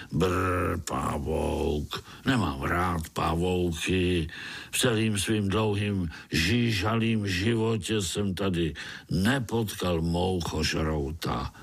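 low, slow, disgusted grumble; voice twisted with anger. Acted. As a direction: spit out the dislike of spiders. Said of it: "hlas celý skřivený zlostí".

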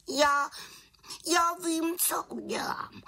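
very high-pitched voice, halting start; determined little witch. A narrator's reading. Little witch tells raven she has a plan, high resolve.

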